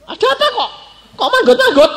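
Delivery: high, loud and laughing; laughing high plea. Retold or imitated. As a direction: play the sheepish couple with a laugh. Couple voiced returning sheepishly.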